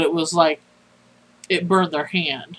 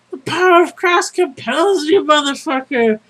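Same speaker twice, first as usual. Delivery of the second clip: high, loud preacher's battle cry; holding a Bible aloft to banish the ghost, roaring; hammed-up exorcist shout; 8 semitones higher, 5 dB louder than usual. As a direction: bellow the exorcism like a crazed priest. Raises Bible over head, exorcising.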